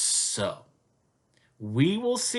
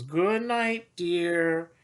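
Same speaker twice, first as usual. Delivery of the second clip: Mama Zookeeper goodnight; much slower than usual. Acted.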